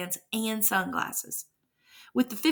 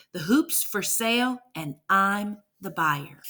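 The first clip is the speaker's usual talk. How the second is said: rhythmic poem reading. A narrator's reading. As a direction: recite it with a steady rhythmic beat. Reads the opening poem rhythmically.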